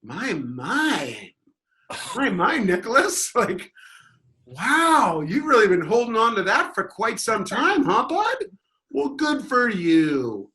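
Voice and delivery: high, slow mock calm; smug teasing. Heckler taunting the angry fan, smug and slow. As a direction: condescend sweetly. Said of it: "I was just like".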